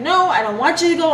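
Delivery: put-on a child begging her dad not to go; retold crying plea. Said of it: "I start crying 'cause I'm like".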